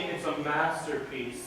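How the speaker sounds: slow, drawn-out quote with light sarcasm; sarcastic. Acted. Friend needling another about his praise, slow light sarcasm. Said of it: "kind of a sarcastic tone".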